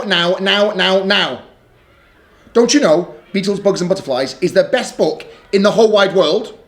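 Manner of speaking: put-on chirpy pleading child voice; a little girl begging her brother; little sister Lola.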